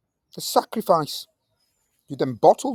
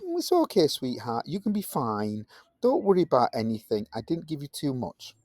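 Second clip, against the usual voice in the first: softer, gently reassuring tones; mock soothing; 3 dB quieter than usual. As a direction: comfort a nervous pet, half in jest. Soothing the rabbit.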